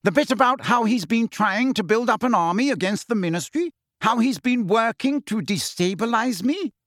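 high, insistent questioning; quivering delight. A narrator's reading. Fudge checking Percy's notes, excited. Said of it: "positively quivering with delight".

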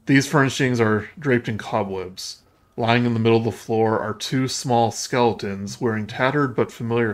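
measured game master narration; scene-setting narration. Acted. Game master describing a cobwebbed room to players, scene-setting narration. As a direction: read out the room description evenly.

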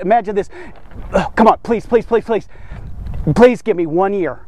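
eager, begging plea, partly quick; imagined pleading. Retold or imitated. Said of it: "I could just imagine the emphasis".

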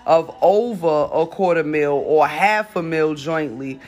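reading an article aloud; news reading. Acted. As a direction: read the news report.

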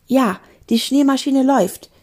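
calling out. Acted. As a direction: call back the report. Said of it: "rief Emanuel".

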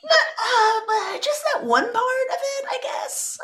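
embarrassed laugh while talking. Real, not acted. Teased about judging religion.

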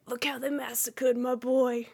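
Vito Corleone impression. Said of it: "do Vito Corleone".

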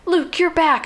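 high-pitched imitated welcome; excited greeting. Inmates welcoming back their recaptured hero, excited.

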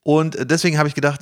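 ordinary talk, nothing marked

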